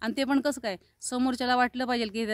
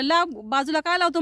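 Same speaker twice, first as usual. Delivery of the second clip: raised-pitch retold challenge; confrontational; 5 semitones higher, 3 dB louder than usual. Passenger confronting the driver for pulling over, indignant. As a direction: throw the question back at him indignantly.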